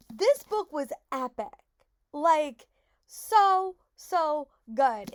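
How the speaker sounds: loud, slow, thrilled about the book; excited. Real, not acted. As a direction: gush with delight. Just finished a great book.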